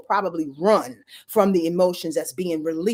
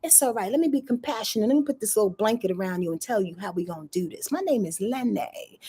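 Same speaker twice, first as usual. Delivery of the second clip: a lightly voiced sweet-talking Lenny, higher; Pisces as smooth Lenny; 4 semitones higher than usual. Pisces soothing a dizzy Pluto, lightly voiced slick sweet talk. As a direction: coax Pluto gently like a slick charmer. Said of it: "this Pisces passive aggressive thing, going".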